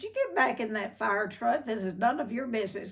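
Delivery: lightly re-enacted angry telling-off; retold cussing out. Furious staffer chasing the fire chief back to his truck, retold angry scolding. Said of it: "blah, blah, and I cussed him out".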